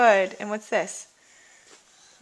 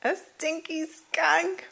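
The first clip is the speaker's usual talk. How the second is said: playful stinky skunk; 4 semitones higher, 3 dB louder, much slower than usual. Acted. Playful naming for toddler.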